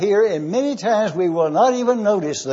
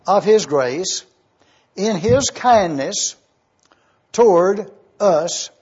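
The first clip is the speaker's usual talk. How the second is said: slow scripture reading; slower than usual. Acted. Reads the verse slowly.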